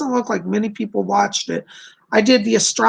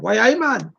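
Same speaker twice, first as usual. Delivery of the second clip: lightly put-on Geordie; American's easygoing Geordie imitation; Geordie accent. Shown as a demonstration. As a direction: demonstrate Geordie speak casually. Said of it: "That's some Geordie speak for you there".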